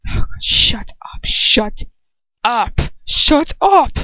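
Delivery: whispered, then a strained plea; desperate whisper. Acted. Fainting girl begs the quarrel to stop, whispering. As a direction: hush the voices pounding in your head. Dizzy narrator begging for quiet.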